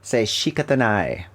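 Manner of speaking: shikatanai said as shee-kah-tah-nai, Japanese vowels; Japanese word shikatanai. Shown as a demonstration. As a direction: clearly pronounce shikatanai the Japanese way. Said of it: "if you wanna say c'est la vie".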